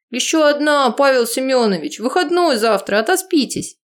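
high teasing shout up; cheeky shout. Acted. Youth answering the cursing neighbour, high cheeky shout. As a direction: cheekily call to the balcony.

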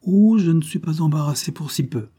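carefree mistress amused by the threat; mildly laughing. Acted. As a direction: toss it off with a light laugh. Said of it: "fit-elle en riant".

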